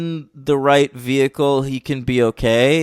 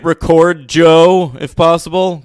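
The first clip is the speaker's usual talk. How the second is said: mildly put-on, earnest actor voice; serious man voice; 2 semitones higher than usual. Impressionist as the actor correcting the host, mock serious man voice. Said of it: "I'm doing my serious, uh, man voice".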